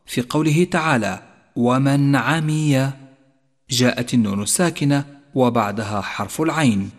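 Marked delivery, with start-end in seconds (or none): 1.6-2.9 ومن عمي chanted slowly with a clear ن before ع; clear izhar. Shown as a demonstration. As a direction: recite ومن عمي slowly, no nasal hum on the نون. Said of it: "حكم الإظهار". («ومن عمي» بإظهار النون من دون غنة)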